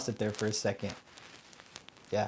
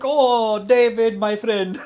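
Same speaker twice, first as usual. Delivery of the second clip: high, loud put-on caller voice; mock scammer; 11 semitones higher, 8 dB louder, much slower than usual. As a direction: ham up the scammer's greeting. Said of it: "And he's like".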